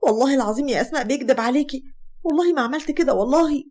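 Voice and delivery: shocked, pleading denial. Acted. Hagar denies the lie to her sister, shocked. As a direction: swear your innocence in mild shock. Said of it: "هاجر بصدمة".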